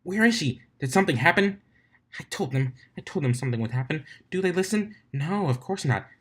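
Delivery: high, frantic breakdown; panicked rant. Acted. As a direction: spiral into worried fury. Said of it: "she had her mental breakdown".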